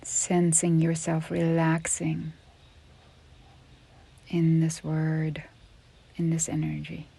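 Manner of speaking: unhurried yoga nidra guidance with long pauses; measured, spacious relaxation-teacher delivery; guided meditation. Real, not acted. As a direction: guide a listener gently into rest, leaving space between phrases.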